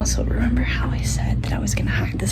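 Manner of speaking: excited hushed whisper; frantic whisper. Real, not acted. Still whispering, parents asleep.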